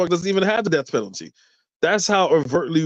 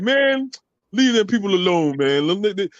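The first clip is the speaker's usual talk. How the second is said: raised-pitch imitation of urging restraint; retold pleading; 6 semitones higher than usual. Locals telling him to leave people alone, high-pitched protest. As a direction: talk them down in a higher voice.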